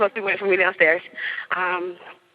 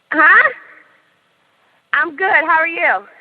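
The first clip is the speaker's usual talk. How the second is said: high-pitched, louder reply; sociable aside; 9 semitones higher, 5 dB louder, slower than usual. Real, not acted. Storyteller answers someone nearby, high sociable voice.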